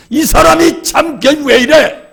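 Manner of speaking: loud, high mock-incredulous aside; mock exasperated onlooker. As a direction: play the baffled bystander shaking their head at him. Mimics puzzled onlookers.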